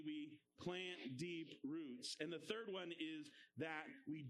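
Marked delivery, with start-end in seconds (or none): 0.0-2.2 slowed, lower, led chant; slow call-and-response. Shown as a demonstration. Teacher leads the class repeating the line, slow chant. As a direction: lead the kids through it slowly. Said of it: "Say that with me".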